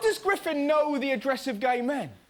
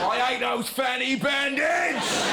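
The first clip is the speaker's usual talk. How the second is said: mock bigot.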